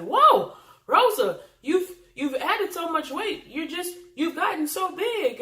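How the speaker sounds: high, loud gushing friend voice; a gushing acquaintance blurting about weight; mocking the friend. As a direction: play the tactless friend, wide-eyed. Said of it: "and she said".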